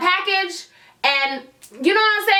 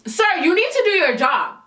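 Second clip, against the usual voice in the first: sassy; 5 semitones higher than usual. Retold or imitated. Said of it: "I'm getting an attitude now".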